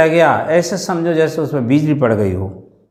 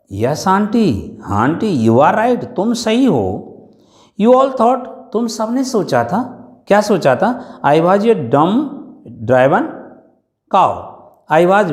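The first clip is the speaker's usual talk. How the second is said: sarcastic retort; 4 semitones higher than usual. Acted. Bholi retorts sarcastically to aunt.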